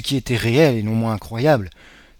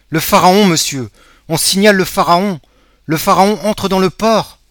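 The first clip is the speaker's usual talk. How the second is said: excited announcement; 9 semitones higher, 10 dB louder than usual. Acted. Emmanuel announcing ship's return.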